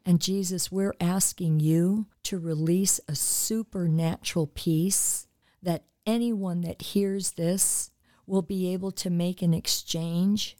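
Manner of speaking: earnest, steady prayer voice for listeners; spoken prayer. Acted. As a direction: pray over the audience with calm conviction.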